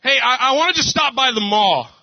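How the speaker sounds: wife asking to stop by the mall, lightly mimicked; sweet wife voice. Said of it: "she tells me".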